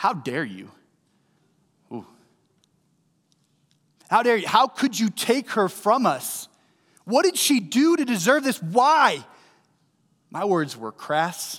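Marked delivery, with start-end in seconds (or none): 0.0-9.3 acted angry yelling, high, swooping, voice climbing. Recalling a loss, retelling angrily yelling at god. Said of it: "I was swearing at God because I was so angry".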